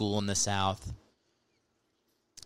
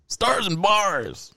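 laughing; 10 semitones higher, 3 dB louder, much slower than usual. Real, not acted. Mocking correction, laughing.

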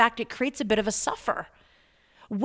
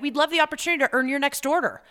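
sales closing line; 3 semitones higher, faster than usual. Shown as a demonstration. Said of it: "close it with something strong".

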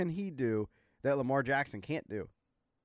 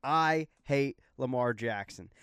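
forced calm; slower than usual. Real, not acted. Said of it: "I'm gonna be as calm as I can be".

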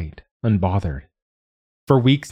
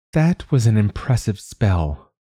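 slight sneer; 4 semitones higher, 3 dB louder than usual. Acted. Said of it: "in her normal voice, youthful, with a bit of sneer".

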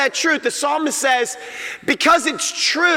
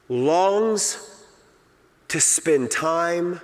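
hushed emphasis; 7 semitones lower, 6 dB quieter, much slower than usual. Real, not acted. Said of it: "slow hushed emphasis".

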